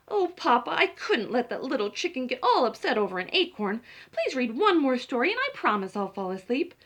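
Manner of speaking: loud, eager little pleading; pleading chicken. Acted. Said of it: "Chicken pleads".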